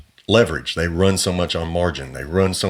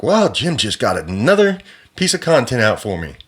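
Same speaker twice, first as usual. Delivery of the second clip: mock excited viewer; 8 semitones higher than usual. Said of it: "you'll be like".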